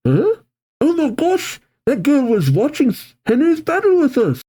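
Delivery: high, squeaky gasp of realization; astonished. Acted. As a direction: react with gushing disbelief. Casey startled by realization.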